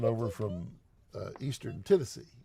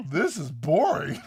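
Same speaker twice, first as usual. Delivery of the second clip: bored drawl; 3 semitones higher, 5 dB louder, slower than usual. Retold or imitated. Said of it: "It's like".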